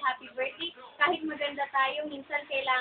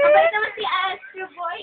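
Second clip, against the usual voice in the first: after crying; 5 semitones higher, 8 dB louder than usual. Real, not acted. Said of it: "Wala lang nakakaiyak".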